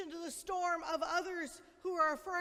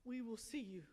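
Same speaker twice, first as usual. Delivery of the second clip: softer, ending in a whisper; 6 semitones lower, 11 dB quieter than usual. Acted. Parent promising a scared child safety, tender whisper. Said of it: "to say".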